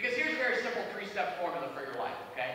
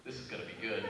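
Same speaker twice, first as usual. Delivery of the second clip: anticipating; 9 semitones lower, 6 dB quieter than usual. Retold or imitated. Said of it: "thinking to myself".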